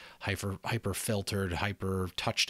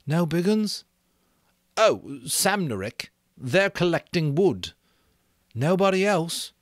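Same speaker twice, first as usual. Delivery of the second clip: put-on higher, louder worried boy's voice; anxious boy Ralph; 9 semitones higher, 5 dB louder than usual. Ralph calling to Piggy across the platform, anxious. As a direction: call out to Piggy, uneasy.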